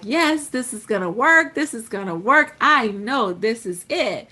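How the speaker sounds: emphatic, mildly excited conviction; acted excitement. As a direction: hammer each phrase with growing certainty. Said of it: "You get all excited all over again".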